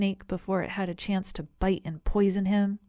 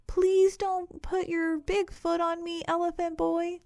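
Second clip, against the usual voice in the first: much higher pleading snake voice; hissing snake; 10 semitones higher than usual. A narrator's reading. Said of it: "hissed the snake".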